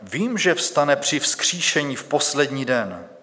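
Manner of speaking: measured, solemn reading of the Gospel; scripture reading. Acted. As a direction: read it like a church lesson, steady and clear. Preacher reads Bible passage aloud. (slavnostní čtení Písma)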